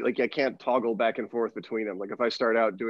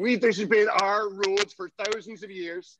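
put-on high-pitched Irish accent, proud and defiant; indignant Irish sheep; 8 semitones higher than usual. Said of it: "They're Irish".

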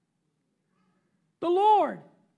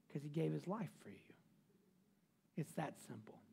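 whispered appeal; 9 semitones lower, 15 dB quieter than usual. Acted. Tender appeal to a friend.

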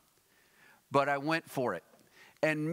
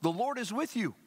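lightly voiced angel, higher-pitched; angel's greeting; 7 semitones higher than usual. A narrator's reading. Angel greeting Mary, lightly acted proclamation. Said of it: "The angel went to her and said".

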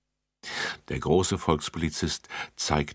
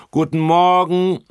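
high, loud chorus call; children call back the greeting loudly; 13 semitones higher, 10 dB louder than usual. Acted. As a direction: call it back like a class of kids. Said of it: "riefen die Kinder zurück".

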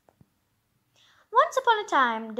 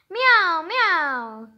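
imitating a cat's meow; 2 semitones higher, 3 dB louder than usual. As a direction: meow like a cat courting her. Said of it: "he said".

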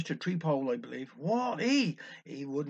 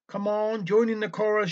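shout; 4 semitones higher, 5 dB louder than usual. Retold or imitated. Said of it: "shouted James".

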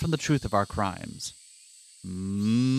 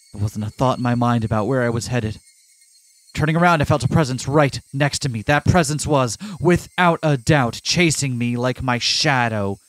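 plain. Acted. Reads game narration aloud.

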